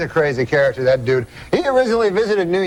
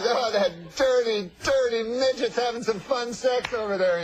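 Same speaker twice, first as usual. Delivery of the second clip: laughing; 6 semitones higher, 7 dB quieter than usual. Retold or imitated. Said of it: "So he goes".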